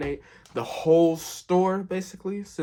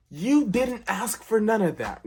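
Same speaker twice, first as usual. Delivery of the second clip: indignant aside; 9 semitones higher, 4 dB louder than usual. Real, not acted.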